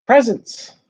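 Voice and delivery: high, eager cry of joy; excited shout. Acted. Children spotting presents under the tree, thrilled. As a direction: squeal at the sight of gifts.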